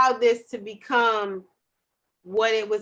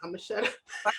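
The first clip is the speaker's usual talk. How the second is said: much softer, low, cowed; a timid muttered give-up; meek mumble; 4 semitones lower, 9 dB quieter, faster than usual. Retold or imitated. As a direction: shrink back and go quiet. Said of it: "both was like".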